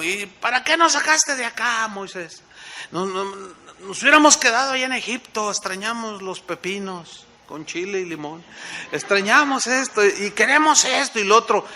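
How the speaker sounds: mock-whining crowd missing Egypt; grumbling people. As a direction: nag Moses like ungrateful complainers. People grumbling against Moses.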